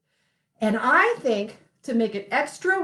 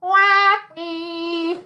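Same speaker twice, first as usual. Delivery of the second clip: pinched nose voice; 3 semitones higher than usual. Shown as a demonstration. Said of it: "pinch my nose closed so that my voice comes out like this".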